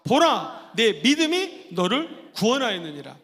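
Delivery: loud 보라, stronger declaration; proclaiming again. Shown as a demonstration. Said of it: "한 번 더 보라부터 시작".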